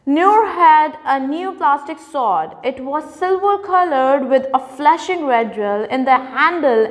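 lively storybook read-aloud; reading to children. Acted. Teacher reading a story to her young students, lively. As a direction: read it brightly for the class.

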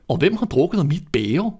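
a distinct little dwarf asking about his cup; seventh dwarf. A narrator's reading. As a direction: give the last dwarf his own quirky sound.

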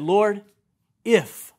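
'if' set apart after a pause; stress on IF. Shown as a demonstration. Preacher quotes Peter to the congregation, stressing 'if'. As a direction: pause after 'Lord', then land a lone 'if'. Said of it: "Underline that word in your Bible".

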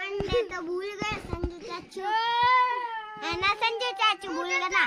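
loud, rushed tearful complaint; crying. Real, not acted. Child accuses uncle of forgetting the eggs, crying. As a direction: wail the accusation out fast. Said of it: "रो क्यों रही है".

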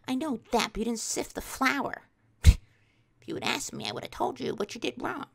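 huffy mock-mom comeback after a gasp; indignant mom. Mom correcting the baker, mock indignant.

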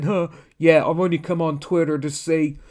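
half-hearted sneering impression; mocking Ron. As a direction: parody a man defending himself online. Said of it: "That's exactly how Ron sounds through his tweets".

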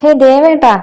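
loud exasperated call to husband. Acted. Wife interrupting her noisy husband, exasperated. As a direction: call out sharply to stop him.

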